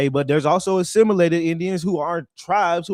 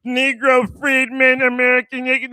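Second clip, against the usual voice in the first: mock shout; 5 semitones higher, 5 dB louder than usual. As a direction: bellow the phrase like a slogan. Mocking the phrase, shouted.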